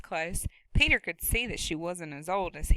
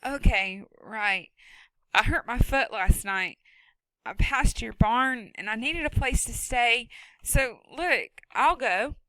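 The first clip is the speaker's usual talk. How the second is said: put-on higher, hurried scared boy; a boy trying to talk his way out; nervous boy; 3 semitones higher, 3 dB louder than usual. Boy character voice.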